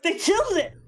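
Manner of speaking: high, tearful mock wail; imitated crying. Mother imitating son crying over a boat, high tearful voice. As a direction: imitate him crying as he gets it out. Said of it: "he starts crying again".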